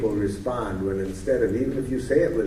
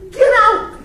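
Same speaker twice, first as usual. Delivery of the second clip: high, loud, hammed-up yell; the wife mimicking her husband's yell, high and loud; mock shouted get out; 14 dB louder than usual. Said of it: "and he says".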